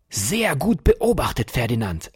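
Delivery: put-on delighted old professor cheering; jubilant praise. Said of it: "jubelte Kuriosus Plum".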